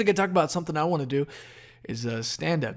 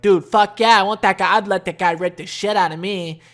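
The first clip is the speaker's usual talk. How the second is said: hammed-up higher girlish gushing; mock girl voice; 4 semitones higher, 7 dB louder than usual.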